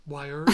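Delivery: Wires said with no R sound, like "wi-uhz"; wires without R. Shown as a demonstration. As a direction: drop the R in Wires. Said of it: "I drop the R on wires".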